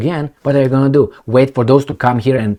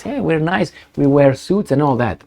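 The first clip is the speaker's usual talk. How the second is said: mock smooth diplomat; 4 semitones higher than usual. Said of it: "they tell us".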